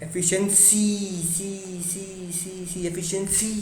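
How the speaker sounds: एफिशिएंसी with final सी drawn out and leaned on; stress on SEE. Shown as a demonstration. Teacher showing the stressed सी in एफिशिएंसी. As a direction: linger on the सी of एफिशिएंसी. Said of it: "सी पे ज़्यादा stress हुआ".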